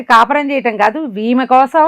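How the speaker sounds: rising outrage at the king's folly; indignant scolding. Real, not acted. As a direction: scold him for his stupidity, voice rising. Teller scolds the foolish king.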